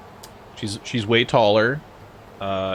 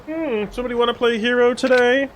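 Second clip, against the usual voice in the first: high, loud taunting thug; overacted anime dub; 14 semitones higher, 4 dB louder than usual. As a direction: ham up a cocky anime thug. Voicing game thug.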